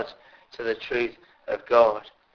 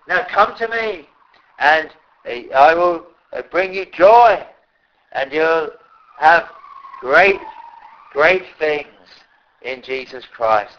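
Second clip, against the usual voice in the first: louder, earnest inviting call that slows on the promise; the Lord's invitation; 2 semitones higher, 4 dB louder than usual. Acted. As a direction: urge them gently but strongly to come. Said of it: "But the Lord says".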